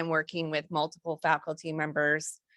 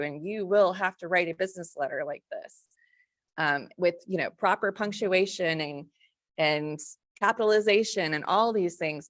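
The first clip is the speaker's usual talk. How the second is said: a little snotty. Retold or imitated. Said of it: "I probably was a little too snotty".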